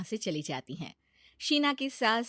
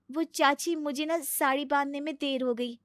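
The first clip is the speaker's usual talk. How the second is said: timid bride; 5 semitones higher than usual. Acted. Sheena explains to chachi.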